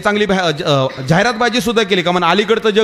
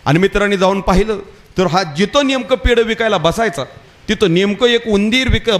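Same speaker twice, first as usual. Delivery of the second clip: ordinary talk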